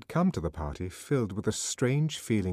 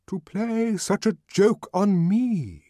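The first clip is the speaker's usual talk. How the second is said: indignant songster; 12 semitones higher, 7 dB louder, slower than usual. Acted. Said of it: "the arch songster kept repeating".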